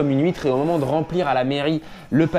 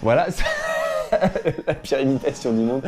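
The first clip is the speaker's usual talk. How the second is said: parler en riant de soi; vrai fou rire. Real, not acted. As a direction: commente ta bêtise en pouffant. Rit de sa propre imitation ratée. (riant de sa propre imitation ratée)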